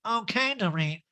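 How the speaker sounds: high, self-righteous nasal impression; mock-noble high voice; a reality star. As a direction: lecture in a pinched put-on voice. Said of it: "that reality star imitation".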